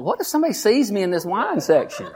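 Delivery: anxious thought with a laugh; laughing worry. Retold or imitated. Pastor embarrassed in the wine aisle, laughing worry. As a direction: fret while chuckling. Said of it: "I thought".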